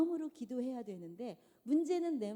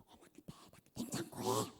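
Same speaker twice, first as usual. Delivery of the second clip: whispered aside; 12 semitones lower, 6 dB quieter than usual. Acted. Aside whispered while on phone.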